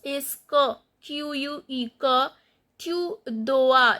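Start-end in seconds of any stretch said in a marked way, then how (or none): 2.8-4.0 "dois" said as "do-a", S silent; silent S, "oa" sound. Shown as a demonstration. Teacher explaining OI, "dois" as "do-a" without S. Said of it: "This S is not pronounced and O I sound is oa".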